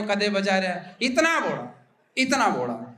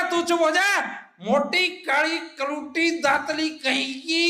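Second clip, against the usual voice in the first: put-on drunk husband scolding; 6 semitones higher than usual. Drunk husband insulting wife.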